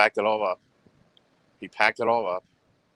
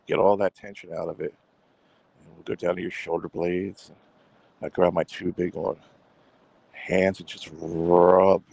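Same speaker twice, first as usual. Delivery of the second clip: soothing massage voice. Pretend. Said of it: "You wanna hear my soothing voice?".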